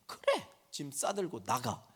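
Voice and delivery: put-on teen sarcastically echoing mom, sulky; sulky sarcastic echo. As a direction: throw her words back with a sneer. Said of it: "그 단어만 딱 잘라서 얘기하면".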